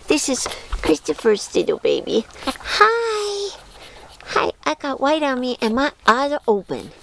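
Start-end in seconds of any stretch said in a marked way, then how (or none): 2.5-6.9 puppy voice. Pretend. Owner voicing a newborn puppy.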